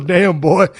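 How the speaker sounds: laughing Virginia accent impression. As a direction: imitate a Virginia referee, amused. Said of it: "He goes".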